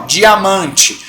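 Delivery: diamante drawn out very slowly; slow demo word. Shown as a demonstration. Teacher slowly says diamante for student Luciana. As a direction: stretch out diamante for the class. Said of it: "Vamos separar".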